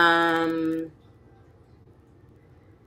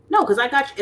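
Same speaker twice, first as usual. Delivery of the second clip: mock guilt-trip; 8 semitones higher, 5 dB louder than usual. Mocking guilt-tripping gift givers.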